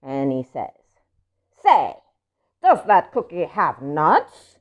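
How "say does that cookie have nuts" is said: louder, slow, suspicious pigeon. Acted. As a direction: squint at the cookie and question it. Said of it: "Pigeon is still suspicious".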